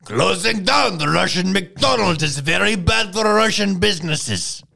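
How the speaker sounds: high, loud mock Russian accent; hammed-up Russian accent. Shown as a demonstration. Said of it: "That's best I could do".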